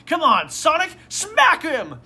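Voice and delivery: high, loud mock cheer. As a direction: shout on your hero as his friends would. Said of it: "they're, like, cheering Sonic".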